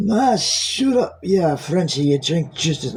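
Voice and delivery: botched Irish slipping into Scottish; failed Irish accent. Acted. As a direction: start high and stretched in a bad Irish accent. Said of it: "no, that's Scottish. I can't do that".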